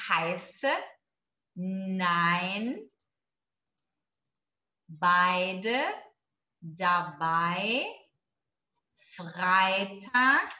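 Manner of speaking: Heiße nein beide dabei Freitag slow, each word alone with a rise, ei as "ai"; slow model words with pauses for the class to repeat. Shown as a demonstration. Teacher asking students to repeat along, slow model words. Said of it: "por favor, junto comigo".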